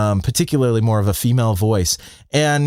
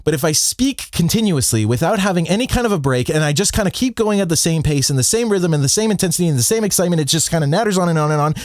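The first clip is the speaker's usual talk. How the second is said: fast and higher, no breaks at all; deliberately annoying run-on delivery; nonstop nattering; 5 semitones higher, faster than usual. Shown as a demonstration. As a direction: rattle on without ever pausing for breath. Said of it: "I'm gonna do this with my voice. It's gonna be a little annoying".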